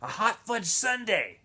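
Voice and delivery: a hint of a tired boy's joke; lightly voiced Stanley. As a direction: tease him gently, slowly. Stanley voiced joking reply.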